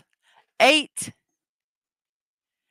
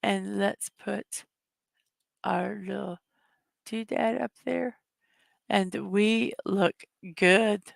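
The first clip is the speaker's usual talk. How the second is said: quiet, pained with a headache; 5 dB quieter than usual. Real, not acted. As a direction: speak through a pounding headache. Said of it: "My head is killing me".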